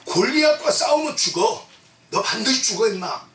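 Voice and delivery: a hint of a rough older brother yelling at the kid; big brother scolding. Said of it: "이렇게 야단쳤겠지요".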